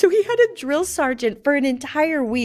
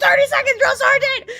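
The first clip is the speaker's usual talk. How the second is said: recruit answering; 13 semitones higher, 5 dB louder than usual. Retold or imitated. Private answering sergeant.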